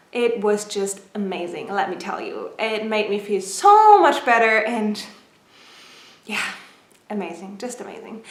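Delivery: breathless, short of air; talking while winded; out of breath. Real, not acted. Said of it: "you can tell I'm out of breath".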